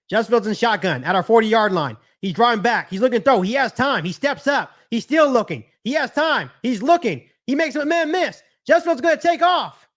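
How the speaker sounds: building from brisk call to high, excited shout; live play-by-play. Real, not acted. Streamer calling a Bears play for viewers, mounting excitement.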